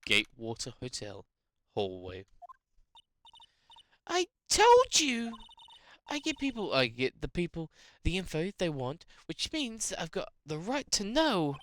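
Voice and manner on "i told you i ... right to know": indignant, lightly southern character voice; southern accent. Acted. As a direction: argue your rights in a mock southern accent. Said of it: "how to do a southern accent".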